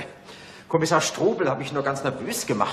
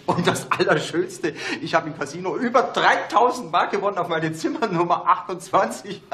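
laughing. Acted. Boasting about casino win.

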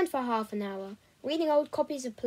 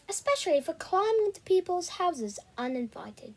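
tutting; 5 semitones higher than usual. Acted. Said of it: "she tutted".

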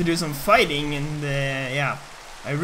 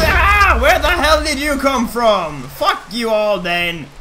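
startled loud shout; raging gamer; 5 semitones higher, 7 dB louder, slower than usual. Real, not acted. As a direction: yell in sudden rage. Creeper surprise, yelling.

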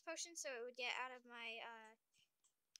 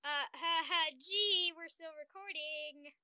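laughter turning nervous; 2 semitones higher, 21 dB louder than usual. Real, not acted. Caught on recording, laughs.

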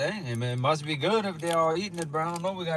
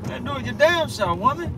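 mock shouting; 10 semitones higher, 4 dB louder than usual. Mock quarrel between spouses.

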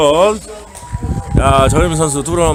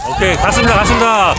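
home run call; 5 semitones higher, much faster than usual. Real, not acted.

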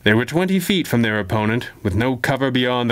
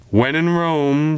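slow, smiling and higher; 4 semitones higher, slower than usual. Acted. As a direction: savor it with a smile. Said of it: "she smiled".

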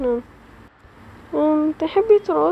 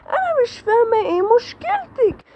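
crying plea; 4 semitones higher than usual. Acted. Amelia begging her sister through tears. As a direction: break down as the power bursts out. Amelia breaks down, powers burst.

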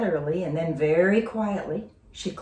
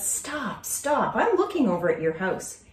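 a hint of a higher girl's voice; lightly voiced girl; friend Denise; 4 semitones higher than usual. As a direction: stop her friend short. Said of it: "Denise said".

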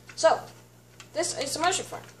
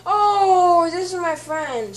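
quoting a friend; 5 semitones higher, 11 dB louder, much slower than usual. Acted. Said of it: "said Jungle Japes".

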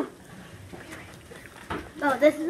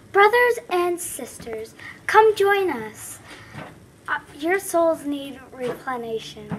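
Sarah impression; 2 semitones higher, slower than usual. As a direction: call out like a mission preacher. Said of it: "my best impersonation of Sarah".

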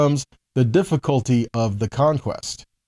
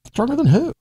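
pointed question; 12 semitones higher than usual. Real, not acted. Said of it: "rhetorical question".

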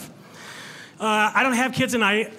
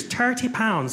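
slower, higher put-on Irish accent; 4 semitones higher, much slower than usual. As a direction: slip into an Irish lilt. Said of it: "talking like that every now and again".

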